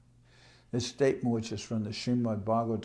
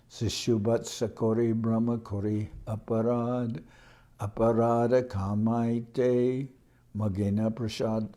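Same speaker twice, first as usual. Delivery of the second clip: verse recitation. Acted.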